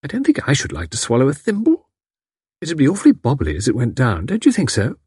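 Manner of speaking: thoughtful. Acted. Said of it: "said thoughtfully".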